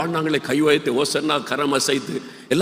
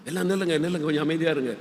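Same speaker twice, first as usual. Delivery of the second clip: hushed plea; 7 dB quieter, faster than usual. Pretend. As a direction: quietly beg everyone to stop. Imagined disciple hushing crowd. (சீடர் கூட்டத்தை அமைதியாக்குகிறார், மெல்லிய குரலில்)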